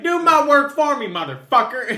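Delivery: loud, high Southern-accented mock yell; thick Southern accent. Mocking friend's line to a game skeleton, thick Southern accent. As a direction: holler it with an exaggerated Southern accent. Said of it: "I hear a very thick Southern accent".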